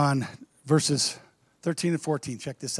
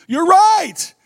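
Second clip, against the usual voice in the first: laughing; 12 semitones higher, 8 dB louder than usual. Acted. Jesus laughs and exclaims.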